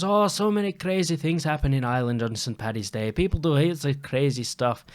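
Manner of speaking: amateur Irish storytelling voice; put-on Irish accent. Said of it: "I gotta keep the accent".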